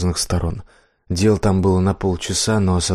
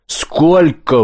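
higher, louder yell of the question; shouted in his face; 8 semitones higher, 6 dB louder than usual. Acted. Death shouting the question into the blacksmith's face. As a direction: scream it right in his face. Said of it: "выкрикнула она прямо в лицо".

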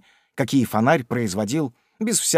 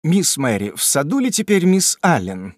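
agitated; 4 semitones higher than usual. Acted. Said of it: "спросил взволнованный мистер Винкель".

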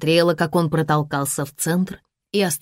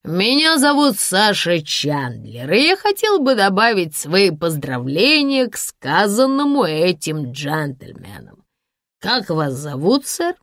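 put-on slow, slurring drunk man; slurred speech; 2 semitones higher than usual. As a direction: drunk man working the room. Drunk Sasha voice.

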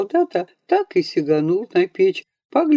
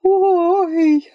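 much higher, louder "Ой"; a startled old woman's gasp; granny's shocked cry; 12 semitones higher, 4 dB louder than usual. A narrator's reading. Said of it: "ахнула".

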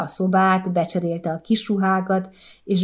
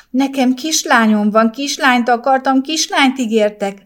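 sobbing in shock; 6 semitones higher, 5 dB louder than usual. A narrator's reading. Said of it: "zokogott csokkos állapotban".

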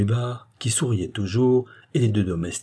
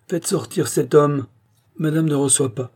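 soft-voiced dandy; 7 semitones higher, 3 dB louder than usual. A narrator's reading. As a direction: dismiss him sweetly, taking your time. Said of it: "dit de sa voix douce le jeune brun". (voix douce et chantante, lente, aiguë)

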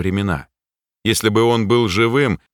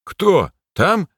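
puzzled repeat; 11 semitones higher than usual. A narrator's reading. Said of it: "переспросил я".

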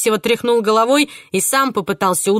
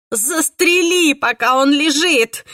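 urgent shout; 7 semitones higher, 4 dB louder, slower than usual. A narrator's reading. Urging to shoot.

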